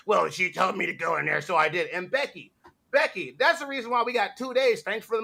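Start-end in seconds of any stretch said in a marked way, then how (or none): 0.0-1.9 mocking imitation with dopey laughs between phrases; mock excuse-making. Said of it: "to be like".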